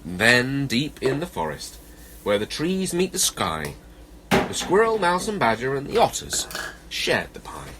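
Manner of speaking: animated, measured verse reading; children's story narration. A narrator's reading. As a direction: read a picture-book rhyme to children. Reads a children's poem.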